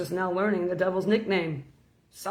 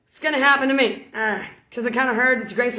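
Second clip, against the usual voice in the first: anxious plea; 3 semitones higher, 4 dB louder than usual. Retold or imitated. Anxious soul asks God.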